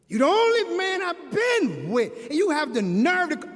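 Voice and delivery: hurt, indignant comeback; indignant retort. Acted. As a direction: protest as if deeply insulted. Acted indignant answer to boyfriend.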